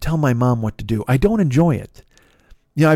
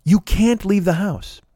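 slow firm warning; 5 semitones higher, slower than usual. Retold or imitated. Telling mom firmly on the phone.

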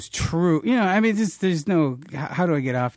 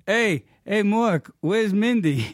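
imitated fan call-out; 6 semitones higher, slower than usual. Retold stranger calling out at table.

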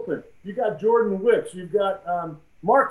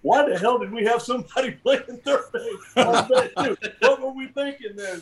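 higher, half-laughing self-mockery; laughing disbelief; 5 semitones higher than usual. Old scout laughing at himself, pitched up. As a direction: laugh at your own mistake. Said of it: "He's going".

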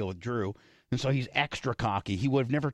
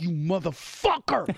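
mock growl; 6 semitones higher, slower than usual. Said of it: "I was like".

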